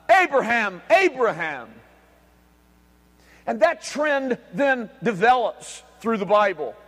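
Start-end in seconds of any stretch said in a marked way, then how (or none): 0.1-1.7 booming call from heaven. Acted. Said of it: "it booms out of heaven".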